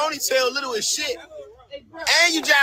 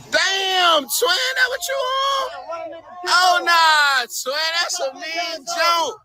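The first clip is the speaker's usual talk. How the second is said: raised, higher teasing yell; mocking shout; 3 semitones higher, slower than usual. Real, not acted. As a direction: shout the jab slow and high. Shouting mockery at passersby.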